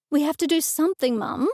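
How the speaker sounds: quick, pressing insistence; emphatic. A narrator's reading. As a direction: daughter insisting to her mother, emphatically. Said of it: "I said emphatically".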